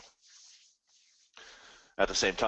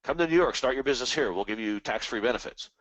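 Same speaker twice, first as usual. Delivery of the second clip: ad voice; 2 semitones higher than usual. Retold or imitated. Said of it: "I see ads on T V".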